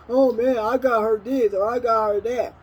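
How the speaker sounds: hammed-up braggart showing off a gift; mocking gossip. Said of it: "All people do is sit around and run their mouth".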